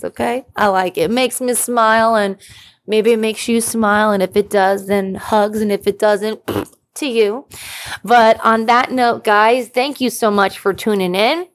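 usual speaking voice

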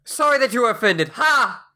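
quick smug fake sorry, triumphant ha; smug non-apology. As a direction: gloat through the half apology.

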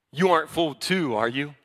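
mildly condescending Pharisee. Acted. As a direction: talk down with a doubting tag question. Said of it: "Very condescending".

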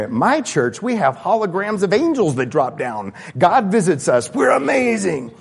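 mock boasting. Mocking boastful churchgoer.

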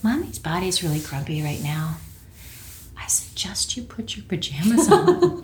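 quiet, gentle retold whisper with a little laugh; soft whisper. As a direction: half-whisper it with a smile. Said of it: "that's how I said it".

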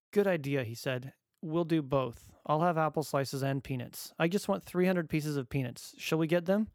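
put-on chirpy little boy planning; cheerful child voice. Son's reply, voiced by dad.

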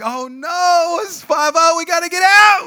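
high, building panicked shout; mock panic. Teen warning friends police have come, panicked shout.

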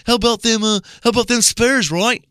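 high mock-British chatter; mock British accent. Host mimics friend greeting him, high mock British accent. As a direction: imitate a friend's cockney-ish British guy. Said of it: "start talking to me in a British accent".

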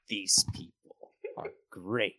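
lightly voiced courteous nobleman, bargaining; a hint of an oily noble negotiating; smooth lord Gerald. Gerald delighted by party.

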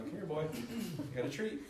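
forced sweet coaxing. Retold or imitated. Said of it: "I'm like drawing him in".

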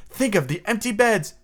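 high-pitched, imploring Wendy; high, put-on girlish appeal; dramatic storyteller. A narrator's reading. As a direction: plead theatrically for sympathy. Wendy plays on the boys' pity.

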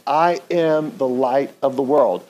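slow, deliberate, each word placed; slow unison recital. Shown as a demonstration. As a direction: say it slowly along with the room. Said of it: "Say that with me".

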